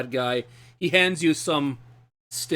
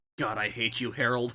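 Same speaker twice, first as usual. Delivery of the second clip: mumbled under breath, quieter; 6 dB quieter than usual. Narrating what two characters overhear a man say, mumbling. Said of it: "hear him mumble".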